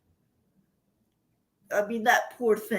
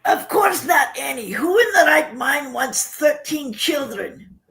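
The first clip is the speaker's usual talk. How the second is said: louder, blunt retort from mother; mother's harsh retort; 4 dB louder than usual. Retold or imitated. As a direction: bark it out like a tired mom. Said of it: "And she goes".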